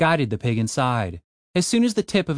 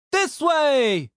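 high, pinched nasal call; 13 semitones higher than usual. Acted. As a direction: call out through the nose. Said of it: "called a nasally voice".

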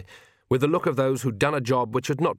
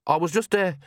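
higher, halting, embarrassed voice; wretched; 5 semitones higher than usual. A narrator's reading. Agnes explains herself to Oates, mildly wretched. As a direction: falter with a touch of misery. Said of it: "said Agnes wretchedly".

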